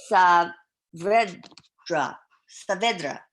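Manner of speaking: name said the Spanish way, first try loud; a light Spanish accent on the name. Shown as a demonstration. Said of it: "I always have to do it in a Spanish accent".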